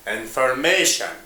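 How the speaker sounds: "information" with the weight on "ma"; "information" said as in-for-MA-tion; stress on second-last syllable. Shown as a demonstration. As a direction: lean on the third syllable of "information". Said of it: "in the last second syllable".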